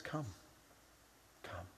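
soft, unhurried beckoning; quiet, kindly welcome; gracious invitation. Acted. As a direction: invite them gently, with a pause between. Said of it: "graciously says".

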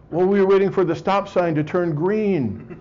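stoned passenger. Retold or imitated. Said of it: "the passenger says".

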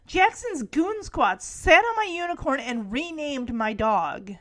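mildly indignant tattling, full voice; lightly acted kid's complaint; retold complaint. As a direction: imitate a kid reporting an offence. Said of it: "Max says".

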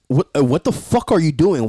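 imitating an angry roommate; going off on someone. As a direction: act out an outraged challenge. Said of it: "went off on him".

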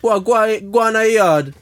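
loud, high disbelief; incredulous outburst. Real, not acted. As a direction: scoff it out loudly. Incredulous at teen at party.

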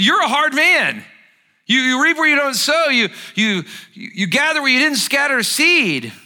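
loud, high, bitter accusation hurled upward; accusing servant. Acted. Servant loudly accusing his master of being hard. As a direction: throw the blame right at him. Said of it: "Can you hear it?".

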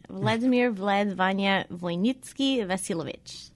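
Vladimir Vlad Vanya Voynitsky Vasilovich said with a Russian accent; Russian-accent rolling of Vasilovich; overdone foreign pronunciation. Shown as a demonstration. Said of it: "I just said it with an accent".

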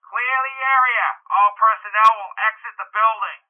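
high-pitched official bullhorn order; amplified, officious crowd-clearing command; megaphone announcement. A narrator's reading. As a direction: bark orders through a megaphone. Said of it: "Bucky's voice was on a megaphone".

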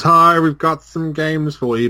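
slow, high mock Swedish accent. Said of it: "but with a Swedish accent".

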